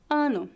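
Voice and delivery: "Ano" with a lightly nasalised A; slightly nasal A. Shown as a demonstration. Teacher demonstrating the vowel, "Ano" with nasal A. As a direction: let the A of "Ano" hum a little through the nose. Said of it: "A letra A é levemente nasal".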